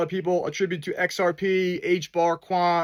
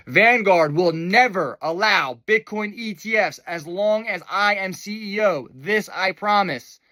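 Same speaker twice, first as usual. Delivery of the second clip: slow, solemn mock CEO pledge; a slow, lightly voiced executive promise; a lightly mocking impression of the CEO's vow; quoting the Vanguard CEO. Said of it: "says the C E O of Vanguard".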